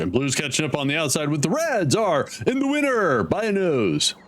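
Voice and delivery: lightly voiced race caller; half-hearted race commentary; sports announcer. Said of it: "Sound like a sport announcer".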